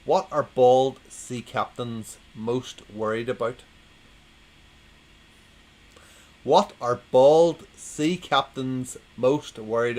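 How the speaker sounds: slow, deliberate posh delivery. Acted. Joke teller setting up a sea captains gag, in posh voice. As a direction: put on a posh accent, drawing out each word. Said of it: "I'm doing my posh voice now".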